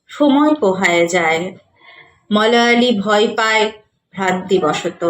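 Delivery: measured verse reading with pauses between phrases; formal poem recital; poetry recitation. Acted. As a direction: recite it phrase by phrase, each falling at its close.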